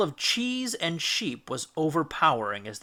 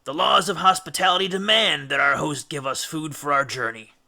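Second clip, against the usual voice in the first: pompous; 5 dB louder than usual. Acted. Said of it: "a little pompously".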